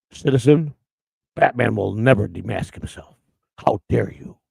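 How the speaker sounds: a hint of a gruff superhero; mock Batman voice. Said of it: "dress up a Batman".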